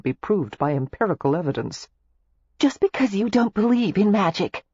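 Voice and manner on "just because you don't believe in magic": high, bright teasing challenge; playful. A narrator's reading. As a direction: tease him about magic. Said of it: "Daisy told him playfully".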